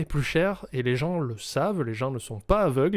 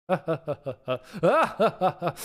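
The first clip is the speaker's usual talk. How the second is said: rhythmic laugh; 2 semitones higher than usual. Shown as a demonstration. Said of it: "une partition où tu fais".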